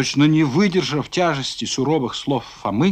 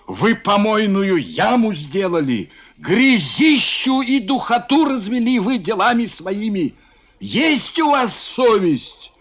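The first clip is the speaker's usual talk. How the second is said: loud denunciation; 4 semitones higher, slower than usual. Acted. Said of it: "громкий голос Фомы".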